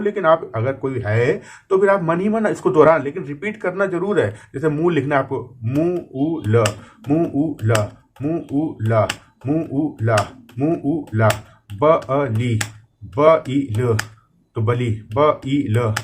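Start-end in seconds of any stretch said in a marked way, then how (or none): 5.6-15.9 मु उ ल and ब ई ल split into separate sounds, slowly; sounding out syllables. Shown as a demonstration. Teacher sounding out letters while typing, syllable by syllable. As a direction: break each word into its letters aloud. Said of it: "ऐसे बोल बोल के उच्चारण करना है".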